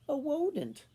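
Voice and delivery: "A wodent" with a w sound in place of r. A narrator's reading. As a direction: say "wodent", rounding the R into W. Rat who can't say R's.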